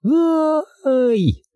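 high sharp cry of fright; girl's yelp. A narrator's reading. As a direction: yelp as she falls. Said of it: "завопила девочка".

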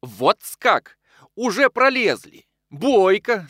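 high, loud sarcastic sneer; mock the rival with a biting laugh in the voice; sneering jibe. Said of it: "язвительной улыбкой".

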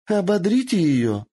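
high, loud gleeful shout; shouted order. Acted. Lord eager for the captive's torture, gleeful shout. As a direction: bark the order with relish. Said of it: "выкрикнул заинтересованный Юидай".

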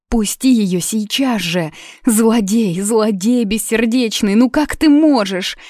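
high, loud, desperate cry; furious plea. Acted. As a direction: beat on him and demand he let go. Юна бьёт его, требует отпустить. (гневный, отчаянный крик)

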